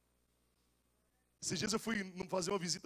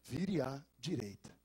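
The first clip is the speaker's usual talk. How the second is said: lower, slow robotic navigation voice; GPS voice; 8 semitones lower, slower than usual. Retold or imitated. Preacher imitating his new GPS, slow robotic voice. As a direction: read it like a car navigator. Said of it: "o G P S faz assim".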